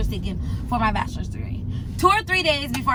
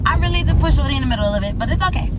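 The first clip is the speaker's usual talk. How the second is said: laughing confession; 7 dB louder, much faster than usual. Real, not acted. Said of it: "I'm so rude".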